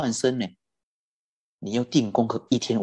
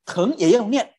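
higher, firm retort; firm command; 8 semitones higher than usual. Retold or imitated. Guanyin answering the sick man's excuse, firm higher command.

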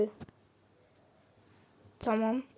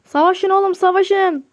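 raised, higher egging-on shout; shouting at the game; 5 semitones higher, 5 dB louder than usual. Real, not acted. Gamer yelling at the characters on screen to fight, loud and higher. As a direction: cheer the brawling customers on, loudly.

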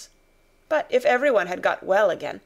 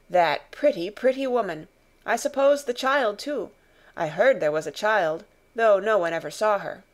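lightly voiced grown man, regretful; sorry for the lost woman; officer's voice; 4 dB louder than usual. Officer lamenting the dead mother to companions.

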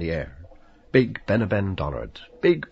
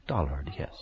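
murmured; 5 semitones lower, 5 dB quieter than usual. Acted. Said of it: "murmuring the name".

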